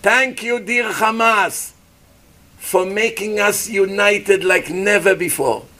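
slow, lightly voiced mock speech of thanks; drawn-out ironic thanks; imitating Bibi Netanyahu. Preacher mimics Bibi thanking Hamas, slow mock solemnity. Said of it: "Bibi Netanyahu gave a speech like this".

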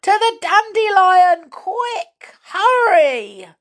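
high, loud urgent yell. Acted. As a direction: yell to hurry everyone along. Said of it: "Saucepan yelled to everyone".

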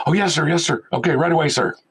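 lightly voiced apologetic assistant; eager apology. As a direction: play the nervous tech scrambling to obey. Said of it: "machine room guys answering".

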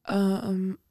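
a crack in the voice as she starts. Real, not acted. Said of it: "wow, my voice just cracked".

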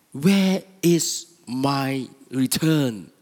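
slow, mildly indignant demand; angry older son. Acted. Older son demanding his return from his father, mildly angry. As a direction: demand it slowly with a touch of anger. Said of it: "He was so angry".

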